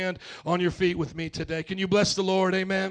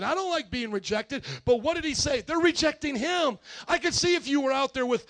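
emphatic preaching; 5 semitones higher, 5 dB louder than usual. Real, not acted. Preaches with rising force.

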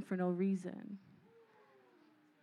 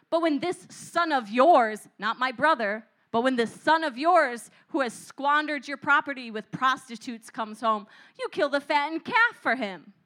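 bitter grievance; 5 dB louder than usual. Acted. Brother's jealous complaint.

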